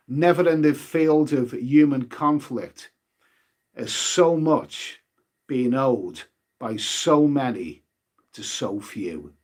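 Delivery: slow, solemn wartime oratory, lightly voiced; a hint of a grand statesman, words drawn out slowly; Churchill. Streamer quoting the famous wartime speech to viewers, slow and solemn. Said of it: "as the great Mister Churchill himself said".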